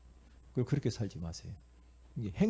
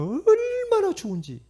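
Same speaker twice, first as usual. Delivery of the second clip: high, loud burst of remembered joy; gushing delight; 8 dB louder, slower than usual. Retold or imitated. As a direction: gush over it, pitch soaring. Recalls joy at first bicycle.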